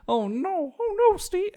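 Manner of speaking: high, drawn-out mock lament; mock dismay. Co-host mocks worry over angering Steve, mock dismay. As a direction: wail "oh no" in pretend worry.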